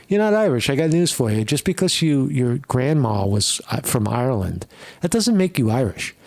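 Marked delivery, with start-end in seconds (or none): 0.1-0.7 higher, punchier repeat; emphatic repeat. Shown as a demonstration. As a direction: hit it harder the second time. Repeated line, second louder.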